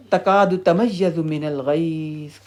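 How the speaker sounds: slow, measured Arabic recitation; Quran recitation. Real, not acted. Teacher reciting a verse about Hell to students, slow recitation. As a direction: recite the verse slowly, drawing out each word.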